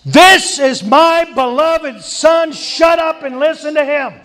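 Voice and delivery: high, stern voice of God; God silencing Peter sternly; God commanding. Retold or imitated.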